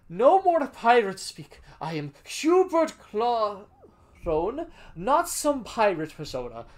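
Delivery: slow, loud hardboiled detective; noir detective. Acted. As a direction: growl it out like a gumshoe. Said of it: "I have to do my detective voice".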